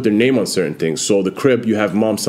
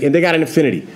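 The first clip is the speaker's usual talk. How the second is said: put-on Boston accent; 5 semitones higher, faster than usual. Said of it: "he's like".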